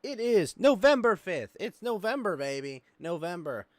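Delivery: high, loud, hyped host welcome; show-opening announcer. Real, not acted. Host opening the show after the pre-show, big announcer voice. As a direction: belt out the show intro.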